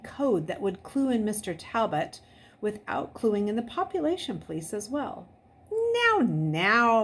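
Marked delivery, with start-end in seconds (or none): 5.7-7.0 calm uncle. A narrator's reading. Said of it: "Mister Talbot said calmly".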